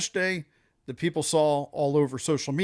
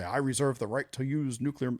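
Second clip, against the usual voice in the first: put-on a weak, half-hearted Russian accent as Putin, lower and softer; bad Russian accent; 3 semitones lower, 5 dB quieter than usual. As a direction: lightly imitate Putin in a poor Russian accent, dropping the voice. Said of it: "I'm not even doing a good Russian accent".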